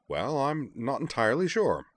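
high, swooping character voice; unsure Devlin. A narrator's reading. Devlin admits to Moose he is unsure, high and lilting.

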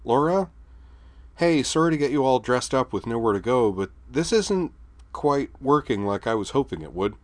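high, loud and cheery over the intercom; forced brightness. Acted. Skuld on the intercom to Laura, forced bright cheer. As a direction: put on a bright voice to hide bad news. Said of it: "tried to make her voice bright".

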